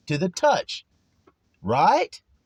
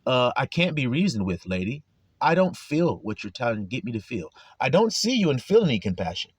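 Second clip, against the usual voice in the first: callous brute; 6 semitones lower than usual. Retold or imitated. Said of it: "the bear that says".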